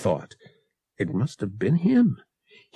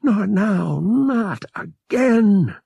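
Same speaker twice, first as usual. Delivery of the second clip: higher, louder, slow desperate cry; inner scream; 11 semitones higher, 5 dB louder, much slower than usual. A narrator's reading. Han's mind crying out at the bounty hunter, higher and louder. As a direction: scream it inside his head. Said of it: "Han's mind screamed".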